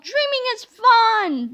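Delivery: high, slow giddy call; gleeful shout. Acted. Teacher runs off thinking it's a dream, giddy and high. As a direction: sing it out like a freed child. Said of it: "she yelled".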